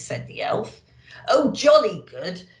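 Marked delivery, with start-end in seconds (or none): 1.3-2.5 chuckling Santa. Acted. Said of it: "chuckled Santa".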